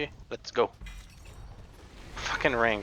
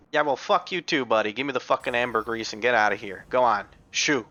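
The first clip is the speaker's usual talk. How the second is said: mock angry; 4 dB louder than usual. Mock-arguing with quest NPC Greg.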